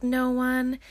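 put-on high, small child's answer; lightly imitated kid; little girl. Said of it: "and she's like".

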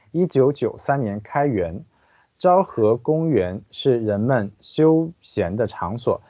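careful Chinese read-aloud; guide narration. Acted. Translator reading the park guide to listeners, formal narration. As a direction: read out each phrase evenly and distinctly.

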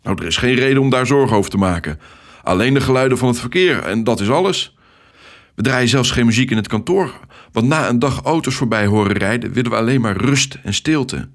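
a hearty, upbeat traffic controller; cheerful Ted. Acted. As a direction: greet the new recruit with hearty enthusiasm. Ted reassuring, voiced.

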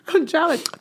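numb tongue slurring; words blurred by a numb tongue; thick tongue lisp. Real, not acted. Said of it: "You done lost your tongue?".

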